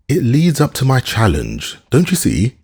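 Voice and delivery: high, beaming and delighted. A narrator's reading. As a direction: let the joy lift every word.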